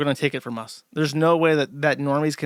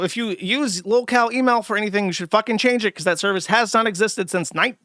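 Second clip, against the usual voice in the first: higher-pitched, fed-up scolding; real exasperation, pitched up; exasperated rant; 4 semitones higher than usual. Real, not acted. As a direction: scold them like you've said it too many times.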